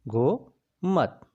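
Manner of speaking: गोमत stretched out very slowly, syllable by syllable; slowly drawn out. Shown as a demonstration. Teacher spelling गोमत slowly for the class, drawn out. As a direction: draw out गोमत so students catch every sound.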